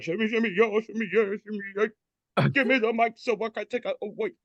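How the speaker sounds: high, hyped-up rap voice; hip-hop girl. Retold or imitated. Girl waking up to grab the mic, high hype. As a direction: bust out like she's grabbing the mic. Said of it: "she's like".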